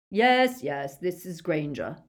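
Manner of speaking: eager confirmation; mild exultant cry; Lucius's excited cry. A narrator's reading. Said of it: "cried Lucius".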